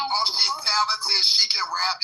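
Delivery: slow, sing-song fake admiration; mocking fan praise; mock gushing. Mocking fans praising a rapper.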